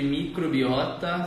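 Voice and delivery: microbiota drawn out slowly, syllable by syllable; slow, stressed term. Shown as a demonstration. Host introducing the topic word to her live audience, slow and deliberate. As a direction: spell out microbiota slowly for the viewers. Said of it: "Vocês já ouviram falar sobre esse termo?".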